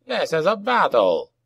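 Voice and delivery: high goblin shout at brawlers; scolding goblin boss, calling out; acted shout. A narrator's reading. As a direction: raise the pitch and call it over the fighting. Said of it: "he shouted".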